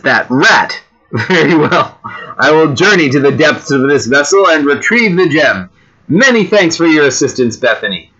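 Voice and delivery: mildly theatrical declaration, lilting pitch; a touch of melodramatic resolve; lightly voiced space hero. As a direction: play the alien adventurer, slightly hammed-up. Voices the alien hero's reply.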